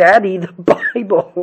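acted, very loud, high, upset toddler voice. Retelling a three-year-old daughter's reaction to a forgotten Bible: imitating an upset child. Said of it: "gets upset with me".

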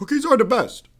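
very high, loud put-on voice. Reading Cookie Monster's Twitter aloud dramatically: Obama impersonation. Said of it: "with an Obama impression".

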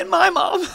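very high, squeaky, laughing voice.

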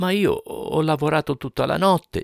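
halting stutter, stammering in very high voice. Told to write another obituary, he protests to the other man: stammering. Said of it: "balbettò Monteiro Rossi".

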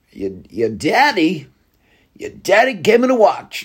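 terrible actorly voice with badly swinging, swooping pitch. Trying out a terrible Christopher Walken impression. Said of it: "Christopher Walken impression".

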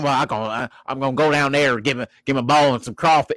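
put-on Louisiana Creole accent. Acting out what a player thinks looking at a coach: Louisiana Creole accent. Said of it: "a Louisiana Creole accent".

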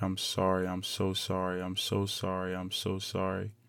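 mock breaking down in tears, slow and tearful. Retelling breaking down at a team meeting: reenacting crying apology. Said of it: "I just break down crying".

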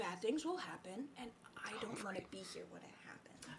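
speaking in a whisper. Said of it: "don't whisper so quietly".

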